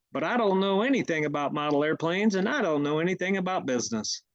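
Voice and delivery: put-on gee-whiz hillbilly boy voice; lightly voiced naive country boy; wholesome 1950s kid. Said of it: "as elementary and hillbilly as possible".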